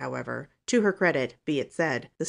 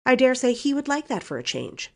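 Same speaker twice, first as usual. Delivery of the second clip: higher, louder brazen retort; 9 semitones higher, 5 dB louder than usual. A narrator's reading. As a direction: answer back without shame, pitched up. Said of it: "said Valancy brazenly".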